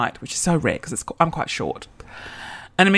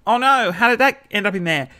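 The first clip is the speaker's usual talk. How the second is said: high-pitched mock surprise; feigned innocence; 5 semitones higher than usual. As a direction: play innocent, badly faked. Feigned innocence in lewd scenario.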